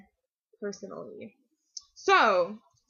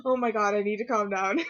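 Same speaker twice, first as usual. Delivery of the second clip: half laughing, half crying. Retold or imitated. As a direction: laugh through tears, trying to calm down. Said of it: "I started crying".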